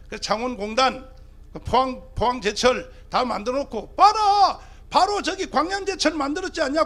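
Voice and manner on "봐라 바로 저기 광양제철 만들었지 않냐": high, loud "look here"; loud call. Real, not acted. Preacher to the rally crowd, high loud call. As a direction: bark it up at the crowd.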